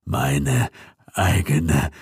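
low, slow, hollow ghost; stunned vengeful ghost; grieving undead voice. A narrator's reading. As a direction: let the truth sink in slowly. Ghost realises daughter killed him.

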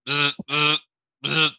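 buzzing fly noise through barely moving lips; hammed-up fly buzz, lips barely moving; bad ventriloquist. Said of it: "Roger's doing a really bad ventriloquist impression".

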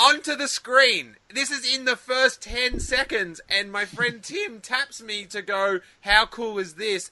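high-pitched, thrilled retelling; breathless excitement. Real, not acted. Fan recounting the first ten seconds of the trailer, excited. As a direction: keep the wonder up high.

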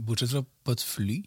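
whisper. Real, not acted. Joking aside about farting.

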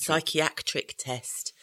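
psychiatric said very slowly, syllable by syllable; slow careful pronunciation. Shown as a demonstration. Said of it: "it's a hard word to say".

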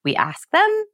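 THEM swooping up high at the end; exaggerated uptalk landing high on THEM; question inflection. Shown as a demonstration. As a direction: turn it into a question, voice climbing sharply on THEM. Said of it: "we go up at the end of our sentence".

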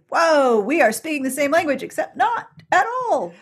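rising astonished whoa; baffled listener hearing a strong accent; amazed confusion. Retold or imitated. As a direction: sound bewildered by the accent. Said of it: "It's like".

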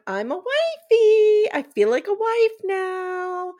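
mocking high, drawn-out Valley Girl; Valley Girl imitation. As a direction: stretch the words into a high, exaggerated girly parody. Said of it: "Valley Girl vocal fry situation".

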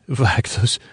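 evoc said with a hard k ending, eh-vock; evoc, cut short into a clipped vock; botched evoke. Real, not acted. Host stumbling over the word evoc while describing his podcast, mispronounced. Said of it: "Evoke is the word".

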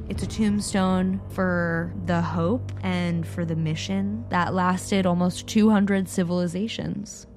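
slow, measured epitaph reading; lightly acted ceremonial gravity, pausing between phrases; solemn pronouncement. Secretary General presents the tombstone to Wang, solemn.

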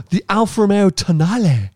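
the name Alfa Romeo Tonale said with a playful fake Mexican accent; mock Mexican accent. Real, not acted. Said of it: "say it in sort of Mexican accent".

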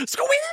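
put-on shrill high yelp from a scalded kid; high squeak. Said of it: "And then he goes".

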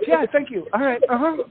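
high, strained fake-cheery thanks; forced politeness through a shot voice; mock brave face. Singer forced back for a bow, thanking the crowd in a high strained voice.

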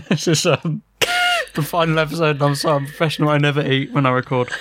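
talking while eating chocolate; mouth full. Real, not acted. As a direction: speak through a mouthful. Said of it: "I'm eating".

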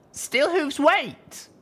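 high, loud urgent call to stop him. Acted. Littlepip calls out to Steelhooves to stop him, loud. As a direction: shout after him to wait. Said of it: "I called out".

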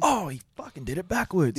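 mock realization. To his co-host, replaying the moment the film's twist clicked, a sudden aha.

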